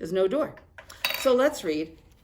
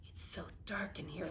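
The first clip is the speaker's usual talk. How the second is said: much softer, a private thought; hushed inner thought; 15 dB quieter than usual. Acted. Hermit Crab thinking nervously in the dark seaweed, hushed. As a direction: murmur it to yourself in the dark. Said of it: "thought Hermit Crab".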